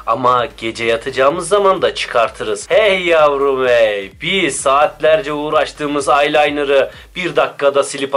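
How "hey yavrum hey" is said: sassy. Acted. Sassy exclamation.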